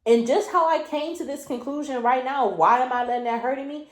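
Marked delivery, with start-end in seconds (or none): 2.5-3.9 quick, exasperated question to yourself; exasperated disbelief. Real, not acted. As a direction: ask it fast, as if baffled at yourself. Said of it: "you hear the tone of voice that I have".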